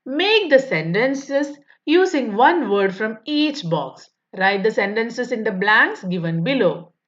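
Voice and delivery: slow, careful reading of the question; textbook read-aloud. Acted. Teacher reading the workbook question to pupils, slow and deliberate. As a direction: read each word out slowly for young pupils.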